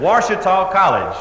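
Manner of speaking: slow, pointed, a bit irritated; a little irritated. Retold or imitated. Caller repeating the college name to the operator, mildly irritated. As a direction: spell it out with mild impatience. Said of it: "A little bit irritated".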